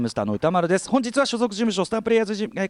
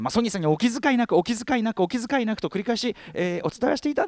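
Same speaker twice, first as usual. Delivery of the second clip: raised, over-polite repeated refusal; hammed-up humble declining; ultra polite japanese; 7 semitones higher than usual. Retold repeated polite refusals to Sony.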